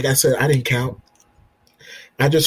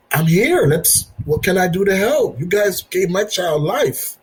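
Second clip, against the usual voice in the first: eager offer; 5 semitones higher than usual. Retold or imitated. Retelling his eager answer to nurses.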